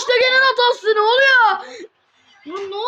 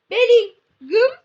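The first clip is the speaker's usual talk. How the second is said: drawn-out pun, very slow; slow joke delivery; 3 dB louder, much slower than usual. Acted. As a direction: spell out the pun slowly. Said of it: "aklıma bir espri geldi".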